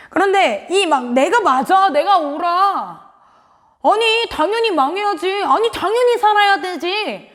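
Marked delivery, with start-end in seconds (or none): 1.1-7.3 emphatic, drawn-out self-righteous insistence; Jonah. Retold or imitated. Preacher voices the prophet's anger at God, mock self-righteous. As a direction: insist you are right, in mock indignation. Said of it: "요나의 막 이 화난 이유".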